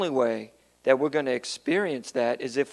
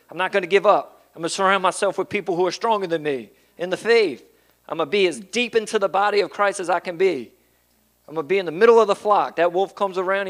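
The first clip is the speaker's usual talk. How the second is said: resolute believer; 2 semitones higher, faster than usual. Retold or imitated. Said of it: "or we say".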